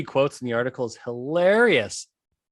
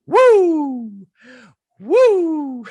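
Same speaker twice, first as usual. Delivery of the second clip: high, loud Ric Flair "Woo!"; 13 semitones higher, 8 dB louder than usual. Retold or imitated. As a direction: whoop like a wrestler hyping the crowd.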